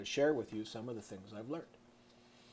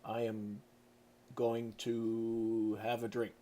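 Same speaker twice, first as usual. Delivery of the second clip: stiff formal reading; much slower than usual. Shown as a demonstration. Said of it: "I don't really talk like that".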